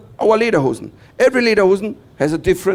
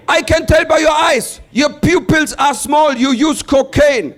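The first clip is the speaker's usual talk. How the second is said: higher, slower mock yell of an officer; mock shouting officer; 8 semitones higher, 4 dB louder, slower than usual. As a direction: bark the accusation slowly as a hammed-up guard. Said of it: "he shouted at me".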